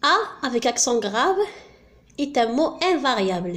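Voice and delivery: slow, clearly spaced reading of the rule. Shown as a demonstration. Teacher dictating the grammar rule to students, slowly. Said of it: "rule read out".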